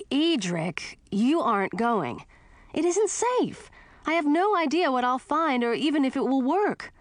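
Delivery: high, urgent protest; insistent and rising; worried objection, pitched high. A narrator's reading. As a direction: firmly forbid a friend, voice climbing. Heroine forbids friend to come.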